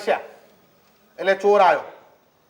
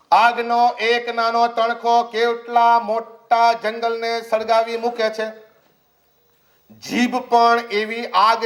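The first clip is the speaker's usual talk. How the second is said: slow, solemn Bible reading; measured scripture recital; slower than usual. Acted. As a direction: read each word out slowly like holy text. Reads scripture slowly.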